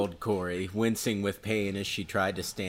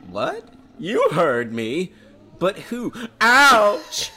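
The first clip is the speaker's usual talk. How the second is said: put-on high-pitched teen girl voice, loud; 11 semitones higher, 9 dB louder, much slower than usual. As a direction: play Lisa in a high girlish voice. Lisa voiced in read story.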